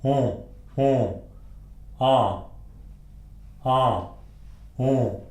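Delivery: short isolated French nasal vowels; nasal vowel demonstration, each sound held. Shown as a demonstration. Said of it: "what are called nasal vowels".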